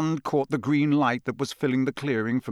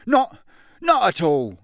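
horrified; 5 semitones higher, 3 dB louder, slower than usual. Acted. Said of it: "Amos Diggory looked horrified".

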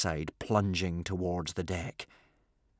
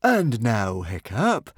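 a touch louder, silky and smug; smiling menace; 2 semitones higher, 5 dB louder, slower than usual. Acted. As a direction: savour the moment like a cat with a mouse. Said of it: "smiled Norbert".

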